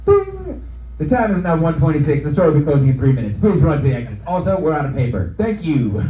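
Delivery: store PA announcement voice; deadpan loudspeaker shopper announcement; flat echoey PA page. Acted. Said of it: "finished my set with".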